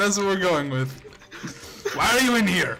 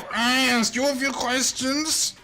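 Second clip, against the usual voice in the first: character voice; 8 semitones higher than usual. Acted. Acted character asking politely.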